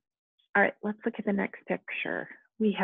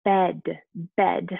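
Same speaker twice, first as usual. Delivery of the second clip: bed said loud and clear twice; emphatic repeat; 2 semitones lower, 4 dB louder than usual. Shown as a demonstration. Teacher sounding out bed for students, loud. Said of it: "We have a picture of a".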